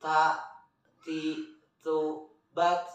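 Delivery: "Ta, ti, tu, bat" with a puff of air on each t; aspirated t in "Ta, ti, tu, bat"; airy t drill. Shown as a demonstration. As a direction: separate syllables, breath flowing from every t. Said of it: "Ada udara yang mengalir".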